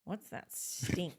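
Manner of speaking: put-on slow, deliberate toddler question; two-year-old girl. Toddler to preschool director, slow imitated child question. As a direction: imitate a small child, stretching the words. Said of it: "It sounded just like that".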